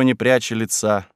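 ordinary delivery, nothing marked

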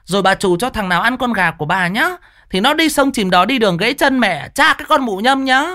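screaming curse. Acted. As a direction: hurl abuse at the thief's family, nonstop. Neighbour's cursing tirade. (chửi rủa the thé, giận dữ)

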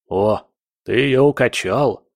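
yappy little dog, amazed; surprised yapping dog. Acted. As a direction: yap it out in surprise. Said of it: "удивлённо протявкал Пёсёй Лаврентьевич". (удивлённое тявканье)

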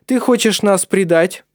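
loud, high accusation of betrayal; accusing anger. Acted. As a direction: confront her as a traitor.

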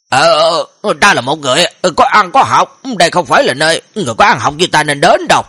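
hesitant stammer with repeated filler sounds; acted reluctant hemming and hawing; flustered balking. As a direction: stall awkwardly like a prim scholar backing out. Scholar balks at entering brothel.

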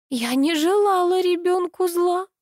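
high, slow tearful plea; a mild sob in the voice; lightly voiced tearful denial; sobbing. A narrator's reading. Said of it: "всхлипнула Алла".

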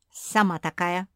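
loud quick retort; snapping back. A narrator's reading. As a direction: fire it right back. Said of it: "быстро огрызнулась Куки".

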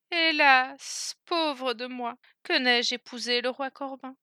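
un hélas plus aigu et plaintif, légèrement joué; soupir plaintif. Acted. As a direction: regret soupiré de la princesse, sans trop appuyer. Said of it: "soupira-t-elle encore". (la princesse soupire son regret, plainte légère)

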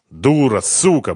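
plain reading voice

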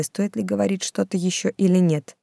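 plain reading voice

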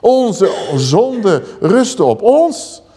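slow, lightly voiced lament of the people; a hint of a weary, guilty people; Israel lamenting. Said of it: "zegt Israël". (langzaam, licht klaaglijk volk)

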